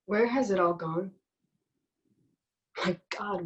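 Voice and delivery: heavy, paused lament. Acted. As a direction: let each line sink away into silence before the next. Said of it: "you've fallen right back into the pattern".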